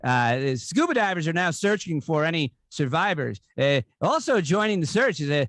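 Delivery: lightly imitated news-anchor joke delivery, swooping pitch; halting mock newsreader, lift the punch word; Norm Macdonald. Comic doing a favorite Weekend Update joke, light anchor impression. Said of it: "two favorite Norm Macdonald jokes from Weekend Update".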